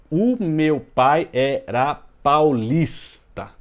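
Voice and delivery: very slow, each syllable separated; scanning the verse. Shown as a demonstration. Teacher marking scansion for class, slow separated syllables. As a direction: spell out the scansion beat by beat. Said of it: "a última tônica aqui é o lis".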